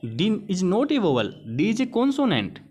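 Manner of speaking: slow, emphatic denial with consonant stressed; slow correction. Shown as a demonstration. Teacher to students, acting out the refusal, slow and firm. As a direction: set the record straight word by word. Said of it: "आप उस चीज़ से मना कर देंगे".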